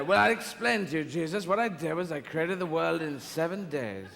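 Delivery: God explaining creation to his son in a hint of James Mason. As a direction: lord it over Jesus like an old screen actor. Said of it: "this James Mason impression".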